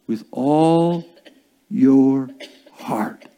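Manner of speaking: slow, spaced words dropping to a whisper; hushed reverence. Acted. Preacher rereading the verse to congregation, hushed reverence. Slow emphatic scripture reading.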